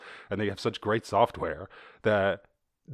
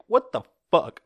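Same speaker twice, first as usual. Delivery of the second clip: high, loud comic outburst; mock outraged Belgium; 10 semitones higher, 8 dB louder than usual. Belgium reacting to vaccines leaving, mock outrage. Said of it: "Belgium's like".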